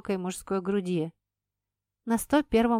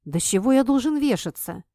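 exclaiming; 3 semitones higher, 5 dB louder than usual. Acted. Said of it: "воскликнул мужчина".

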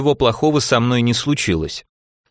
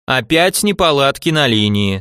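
mechanical system voice; 2 semitones higher than usual. Retold or imitated. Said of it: "спародировал он механический голос системы".

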